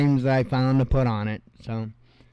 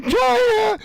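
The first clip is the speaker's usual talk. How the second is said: high, louder mock cry of alarm; panicky prepper shout; 4 dB louder than usual. Mocking a prepper yelling about China, high-pitched. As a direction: squeal the word China in fake terror. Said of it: "the other one's like".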